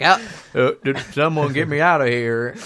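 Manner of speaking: simple-minded mock call for help; stumble, then call out dimly from confinement; Forrest Gump. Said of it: "He's like".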